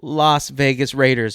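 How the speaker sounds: very high, drawn-out smarmy correction; condescending sing-song know-it-all. Acted. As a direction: stretch it high, then settle into the correction. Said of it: "Google got all smarmy with me".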